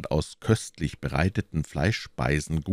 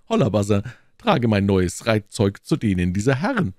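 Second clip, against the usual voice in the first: louder, brisk order to a servant; calling a servant; 3 semitones higher, 4 dB louder than usual. Acted. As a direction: call out the order to your servant. Calls orders to his servant.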